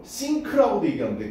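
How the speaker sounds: think를 '씽크'로; think의 th를 ㅆ으로 느리게; 한국식 '씽크'. Shown as a demonstration. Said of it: "그 가운데 발음이야". (think, 한국식으로 '씽크')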